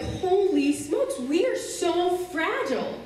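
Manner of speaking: amazed realisation. Retold or imitated. Crying girl realising friends overreacted, drawn-out amazement. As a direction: stretch each word in dawning disbelief. Sudden realisation amid the fuss.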